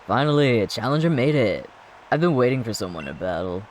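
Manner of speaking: cocky rival, lightly voiced; gym leader voice. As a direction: taunt the challenger like a proud champion.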